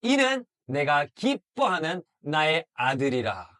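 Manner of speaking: slow, solemn proclamation from heaven; slow divine announcement; voice of God. Acted. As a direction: proclaim it as the Father. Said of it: "하나님 아버지 음성이 들렸어요".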